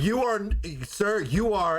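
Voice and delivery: high-pitched, drawn-out verdict announcement; hammed-up paternity reveal; mock talk-show host. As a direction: imitate a host building suspense.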